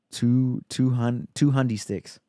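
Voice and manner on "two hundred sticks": "two hundy sticks" said loudly with punch; slangy price reveal. Real, not acted. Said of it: "two hundy sticks".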